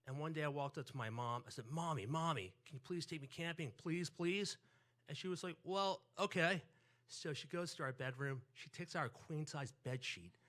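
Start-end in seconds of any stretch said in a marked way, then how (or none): 1.7-4.6 a hint of a begging kid, higher at the end; lightly voiced child pleading with mom. Child begging his mom to go camping. 5.6-6.6 higher, louder, drawn-out agreement; mom giving in. Retold or imitated. Mom gives in to begging child.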